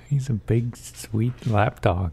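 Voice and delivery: whispered softly, almost breathless. Real, not acted. Agreeing with her about the dog, a soft whisper. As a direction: murmur it like a fond secret.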